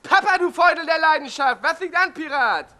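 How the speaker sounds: cheery son greeting his dad on the phone; loud high phone greeting. Acted. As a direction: boom it into the phone. Caller greets father on phone.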